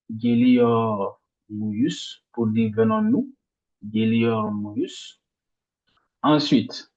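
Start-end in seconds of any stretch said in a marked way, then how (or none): 0.1-2.2 geliyor muyuz slowly, weight on geliyor; stress before muyuz. Shown as a demonstration. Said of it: "l'accent tonique sur". 3.8-5.2 geliyor muyuz slowly, weight on geliyor; stress before muyuz. Shown as a demonstration. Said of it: "l'accent tonique sur".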